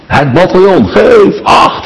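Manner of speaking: high mock command; retold parade command. Preacher recalling commanding the battalion, high-pitched mock order. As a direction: bark it like a drill order, half-playful. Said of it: "riep ik".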